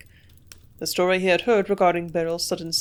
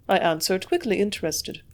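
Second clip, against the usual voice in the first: ordinary delivery, nothing marked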